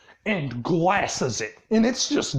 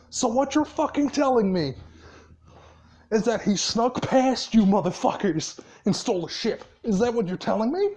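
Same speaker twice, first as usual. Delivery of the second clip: incredulous, mock-furious grilling; retold angry demand; 3 semitones higher than usual. Boss confronting the Poxes after a ship was stolen, retold angry demand. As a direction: act out a boss's angry demand, pitch lifting slightly. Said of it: "slams his hands on the desk".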